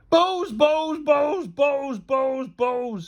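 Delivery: high repetition winding down; dazed, crazed chant to oneself; obsessive muttering. A narrator's reading. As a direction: babble it on and on, fading. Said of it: "he carried on muttering".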